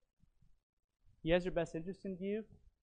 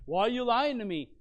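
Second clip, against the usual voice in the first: raised, louder mock rebuke; mock scolding; 7 semitones higher, 8 dB louder than usual. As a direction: play the scolding version, not meant. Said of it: "Jesus isn't necessarily scolding them".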